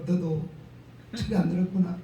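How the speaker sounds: quiet inward judgement, half to himself; inner thought. Retold or imitated. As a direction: say it under your breath as a thought kept to yourself. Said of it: "속으로만".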